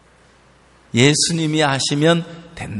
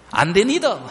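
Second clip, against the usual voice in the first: "안 됩니다" in a Gyeongsang-Gangwon country accent; flat Gyeongsang-Gangwon refusal, "안 됩니다"; 4 semitones higher than usual. Shown as a demonstration. Preacher imitating the mother's refusal in Gyeongsang-Gangwon accent. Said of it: "경상도하고 약간 강원도하고 섞인".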